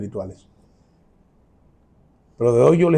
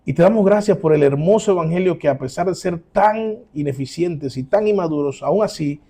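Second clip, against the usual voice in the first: closing prayer. Acted. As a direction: pray humbly to the Father.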